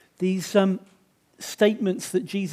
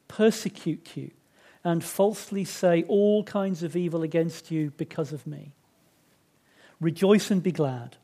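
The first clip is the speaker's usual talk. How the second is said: measured Bible reading with pauses between clauses; scripture reading. Acted. Preacher reads the Beatitudes to the congregation, measured recital. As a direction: read each blessing out deliberately, line by line.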